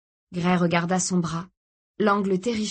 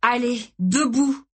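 higher, slow commanding snap; barked order; 5 semitones higher, 4 dB louder, slower than usual. Acted. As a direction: order her up with menace. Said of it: "ordonna-t-il à Kirsty".

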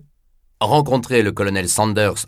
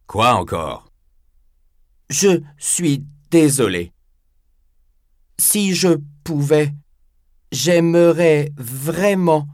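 put-on higher, slow, gentle old man; slow, humble elderly voice; 6 semitones higher, slower than usual. Nakata's voice in audiobook.

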